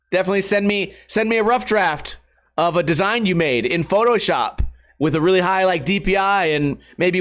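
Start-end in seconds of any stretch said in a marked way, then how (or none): none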